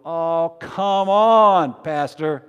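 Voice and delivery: voicing a disbelieving churchgoer's outburst; incredulous protest. Congregation's disbelief voiced by preacher.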